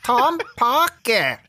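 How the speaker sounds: slow, high, dim-witted drawl; dopey recruit voice. Acted. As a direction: play a clueless young recruit. Acted recruit answering sergeant.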